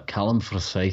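half-hearted Scottish accent on request; attempted Scottish accent. Shown as a demonstration. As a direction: have a tentative go at Scottish. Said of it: "Try and say Callum Forsyth in a Scottish accent".

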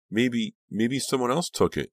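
high, frightened stammer; choked, frightened. A narrator's reading. Dina offering the gunman another explanation, choked and frightened. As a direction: suggest it fearfully, voice choked and high. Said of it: "in a choked, frightened voice".

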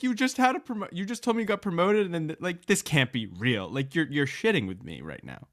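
can't believe what she's hearing; shocked disbelief. Retold or imitated. Recalling the news of the crash, high and incredulous. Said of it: "I was shocked".

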